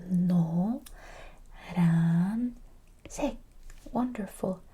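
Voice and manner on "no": "No" with a small, closed-mouth O. Shown as a demonstration. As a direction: keep lips close for the O in "No". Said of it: "close mouth".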